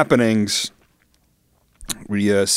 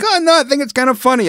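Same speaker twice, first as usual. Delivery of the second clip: high girly mock voice; 9 semitones higher, faster than usual. Imagined girlfriend quote.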